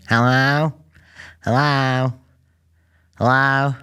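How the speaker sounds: high, loud drive-thru hello; imitating dad, blast out a forceful hello. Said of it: "forcefully saying".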